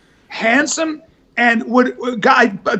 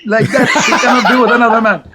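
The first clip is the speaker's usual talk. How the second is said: macho Lebanese boast. Retold or imitated. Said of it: "So I played those".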